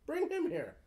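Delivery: commanding order. Acted. In-character command to fetch guard.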